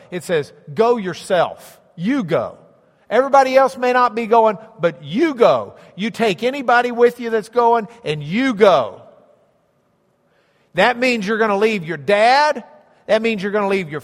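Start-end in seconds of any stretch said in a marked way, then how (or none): 0.7-9.0 insistent stress on "you go"; emphatic command. Shown as a demonstration. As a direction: lean hard on every "you" and "go". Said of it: "it's very emphatic".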